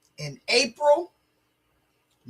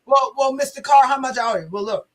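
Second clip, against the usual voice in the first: put-on drunk mechanic; faster than usual. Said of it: "This was him".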